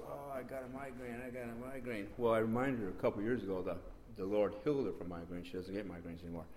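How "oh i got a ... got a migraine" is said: softly voiced retold groan about pain; imitating wife. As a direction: quietly moan it as the sick wife. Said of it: "And she goes".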